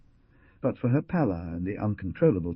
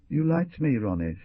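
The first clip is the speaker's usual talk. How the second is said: pleading; 6 semitones higher than usual. A narrator's reading. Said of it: "she was pleading now".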